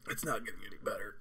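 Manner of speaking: soft breathless whisper. Real, not acted. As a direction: whisper it through the pain. Whispers, then repeats it plainly.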